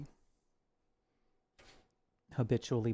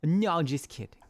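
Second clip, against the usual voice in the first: teasing; 6 semitones higher, 3 dB louder, slower than usual. Retold or imitated. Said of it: "Teasing the people, saying".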